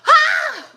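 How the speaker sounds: a high, loud burst of laughter; high laughing cry. Real, not acted. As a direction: shriek with laughter.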